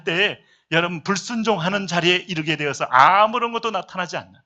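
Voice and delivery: driving sermon warning with punched phrase ends; emphatic preaching. Real, not acted. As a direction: preach the warning, stretching the key words. Preaches at full force.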